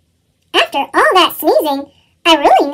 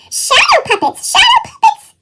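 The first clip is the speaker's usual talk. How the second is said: very high excited squeak; squeaky. A narrator's reading. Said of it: "she squeaked again".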